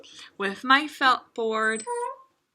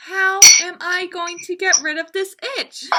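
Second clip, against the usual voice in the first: lightly voiced rhino; 7 semitones higher, 8 dB louder than usual. Rhino wonders about itch.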